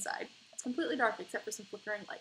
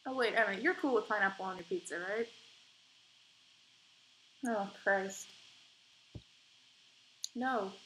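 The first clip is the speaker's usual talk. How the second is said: ordinary delivery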